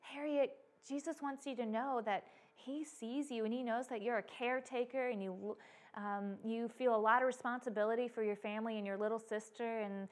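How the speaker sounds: soft, tender encouragement; loving, pouring out. Retold or imitated. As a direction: speak gently to comfort and encourage her. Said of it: "loving and pouring".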